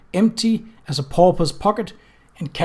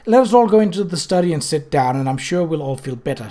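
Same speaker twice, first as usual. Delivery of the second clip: 1 hurried; 2 semitones higher, 3 dB louder than usual. Acted. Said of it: "said Isabel hurriedly".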